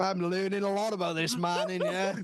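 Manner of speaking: amused, laughter leaking into the words; barely holding back laughter; laughing. Real, not acted. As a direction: say it through giggles. Cracking up at own retold story.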